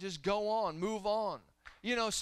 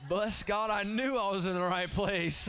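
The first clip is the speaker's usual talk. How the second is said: happy church member; 2 semitones higher, 5 dB louder than usual. Retold or imitated. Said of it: "They said".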